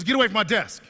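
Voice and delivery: high-pitched mock yell of dismissal; retold yell. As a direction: shoo them off, imitating a sergeant. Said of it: "She yelled at them".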